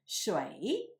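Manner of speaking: Shui drawn out with a rising tone; second tone. Shown as a demonstration. Teacher showing students Shui in the second tone. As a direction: say Shui slowly, pitch climbing. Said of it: "pronounced in the second tone".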